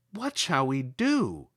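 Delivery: slow, mildly despairing question; a hint of hopelessness, drawn out slowly. Dorothy at the ditch asking the others, mild slow despair. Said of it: "asked Dorothy despairingly".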